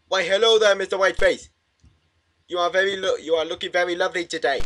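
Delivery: hammed-up lovestruck wooing, pitched high; mock theatrical courting voice; Romeo and Juliet. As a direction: woo like a stage lover. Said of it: "trying to do a Romeo and Juliet impression".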